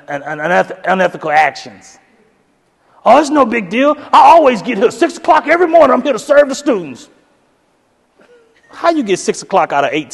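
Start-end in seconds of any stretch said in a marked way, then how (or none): 3.0-7.1 mock humble coworker. Mocking coworker lying.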